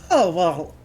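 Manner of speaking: put-on an old tavern woman slipping into a Scottish accent; Scottish lilt, half-found. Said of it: "it's, it's going Scottish".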